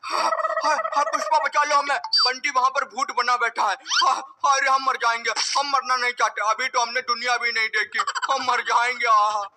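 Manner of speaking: frantic cries for help, rushing at times; terrified father calls his wife to save him; nightmare panic. Acted. Father wakes from nightmare screaming. (डर से चीखते हुए पुकार)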